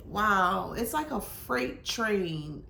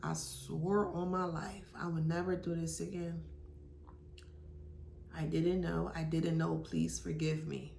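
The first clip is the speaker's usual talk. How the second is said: remorseful confession, imitated; 3 semitones lower, 8 dB quieter than usual. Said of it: "Just like that".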